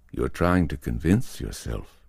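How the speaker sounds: level, unhurried and steady; calm. Acted. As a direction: say it calmly, without pressing. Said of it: "Lee said calmly".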